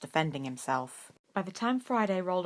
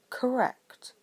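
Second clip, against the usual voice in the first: short; 7 semitones higher than usual. A narrator's reading. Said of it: "Snape said shortly".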